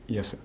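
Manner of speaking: "Jesse" said the Dutch way, with a Y; "Jesse" with soft Dutch Y opening; Dutch pronunciation. Shown as a demonstration. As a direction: say "Jesse" as YES-seh, starting like "yes". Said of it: "in Dutch, it's".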